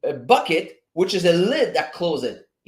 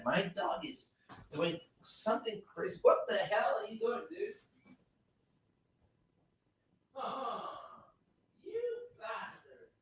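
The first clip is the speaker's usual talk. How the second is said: much softer, distant exasperated scolding; off-mic, far off; 7 semitones higher, 14 dB quieter than usual. Real, not acted. Streamer catches his dog misbehaving, distant off-mic scolding. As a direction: call out to the dog from away from the microphone.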